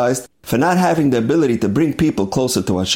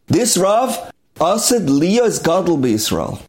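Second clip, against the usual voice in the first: high start, then slow and weighty; a retold sage's hushed-awe declaration; solemn proclamation; 5 semitones higher, slower than usual. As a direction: announce it to the whole crowd. Sage proclaims to the crowd.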